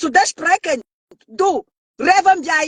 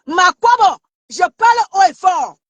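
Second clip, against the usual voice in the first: speaking loud and strong; 2 semitones higher, 4 dB louder than usual. Real, not acted. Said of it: "je parle et je crie".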